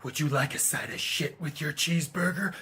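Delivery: hammed-up catchphrase delivery in an altered voice; practicing awful catchphrases. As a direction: try out a bad action-hero catchphrase. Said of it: "awful catchphrases".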